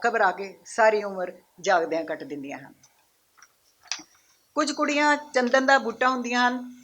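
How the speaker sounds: lifted opening, falling line ends; poem recitation. Acted. Poet reciting her poem about girls to an audience, declaimed recitation. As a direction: declaim each line to the room, then pause.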